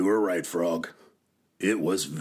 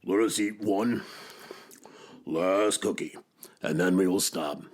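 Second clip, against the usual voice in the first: mouth full. A narrator's reading. Toad proposes more while eating.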